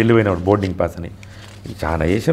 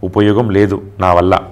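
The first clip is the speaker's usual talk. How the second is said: slow despairing message; 4 semitones lower, slower than usual. Retold or imitated. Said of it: "అని పెట్టింది ఆమె".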